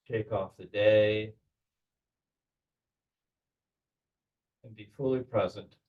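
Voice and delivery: measured meditation guide with long pauses; guided visualization. Acted. Leader settles the group into belly breathing, calm guided meditation. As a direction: guide them calmly, leaving space between phrases.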